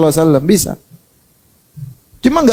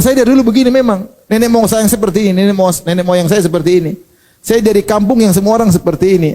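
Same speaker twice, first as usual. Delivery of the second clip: higher, defensive whine of a stubborn man; mock stubborn excuse; 3 semitones higher than usual. Preacher mocks a stubborn man excusing his temper. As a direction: play the proud hothead making excuses.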